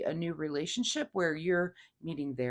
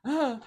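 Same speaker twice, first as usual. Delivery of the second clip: higher, acted little gasp; mock gasp; 7 semitones higher, 4 dB louder than usual. Reader showing how they would react, mock gasp. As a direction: give a pretend gasp of holding back. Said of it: "I would go".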